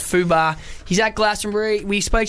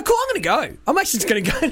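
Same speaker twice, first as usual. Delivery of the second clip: much higher, light mock woman backing off; mock girl voice; 7 semitones higher, faster than usual. Host imitating the girl leaving the Italian guy, in a much higher voice. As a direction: play the girl making a quick exit.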